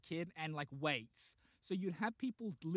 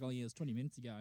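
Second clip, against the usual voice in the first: casual cop answer; 4 semitones lower, 4 dB quieter, much faster than usual. Retold or imitated. Casual officer answers detective.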